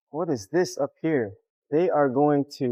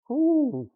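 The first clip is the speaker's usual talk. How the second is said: heavy breathing; 12 semitones higher than usual. Real, not acted. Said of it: "Sorry for my, uh, breathing".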